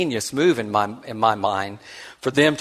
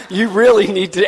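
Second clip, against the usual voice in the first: put-on five-year-old voice; 7 semitones higher, 5 dB louder than usual. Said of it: "and then said".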